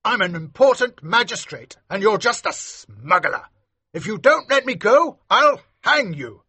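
high, outraged magistrate; indignant threats. A narrator's reading. Captive magistrate threatens a mere smuggler, high and indignant.

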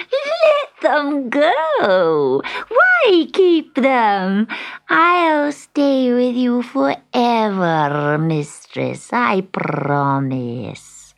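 high, slow worried cat; a fretting cat, up high. Acted. Sutika voiced.

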